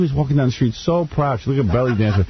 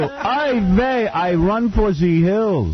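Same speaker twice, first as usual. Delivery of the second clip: mock panicked Jew; 9 semitones higher, much slower than usual.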